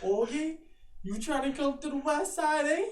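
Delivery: high, put-on street tough; tough gangster voice. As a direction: play a west side gangster. Gangster turf bit with friend.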